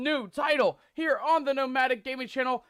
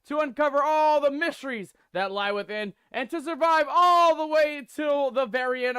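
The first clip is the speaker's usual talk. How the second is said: rallying cry; 3 semitones higher than usual. Acted. Hyping the game's mission.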